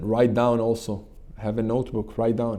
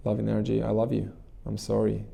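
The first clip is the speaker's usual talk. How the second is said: a softly spoken loving prayer that fades; gentle devotional whisper-soft prayer; soft prayer, fading; 4 dB quieter than usual. Shown as a demonstration. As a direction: murmur it gently to the loving energy. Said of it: "and say".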